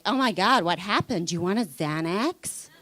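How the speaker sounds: imitated concerned American, swooping intonation; mock American alarm in an American accent. Average American reacting to "not too bad", mock American accent. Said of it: "say to the average American".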